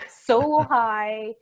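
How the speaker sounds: slow, laughing through it. Real, not acted. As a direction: let the laugh break the words. Laughing about being high.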